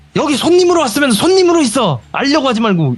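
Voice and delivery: put-on very high, angry, scolding old woman voice.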